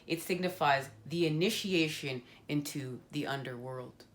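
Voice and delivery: measured guidebook reading voice; reading the card's meaning aloud to viewers. Acted. Reads the Thanatos card text to viewers, solemn and measured.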